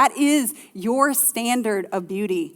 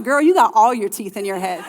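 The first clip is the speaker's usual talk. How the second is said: laughing paraphrase; 5 dB louder than usual. Retold or imitated. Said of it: "He's like".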